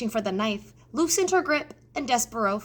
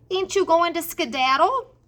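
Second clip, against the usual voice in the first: Mig coaxing the mouse; 8 semitones higher, 5 dB louder than usual. A narrator's reading. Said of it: "she said".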